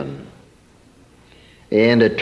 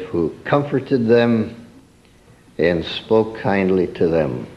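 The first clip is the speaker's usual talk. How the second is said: gently; 4 semitones lower than usual. Shown as a demonstration. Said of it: "Comforting, kindly words".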